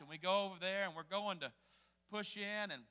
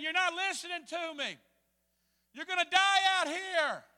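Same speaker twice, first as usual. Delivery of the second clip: higher, mildly hollered warning; retold hollering; 5 semitones higher, 3 dB louder than usual. Captain to rafters who won't listen, retold holler. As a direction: imitate an exasperated captain calling out. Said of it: "he was hollering at us".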